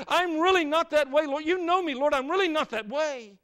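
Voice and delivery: mock altar prayer rising high and loud; pleading confession. Churchgoer at the altar begging God for forgiveness, rising to a loud cry.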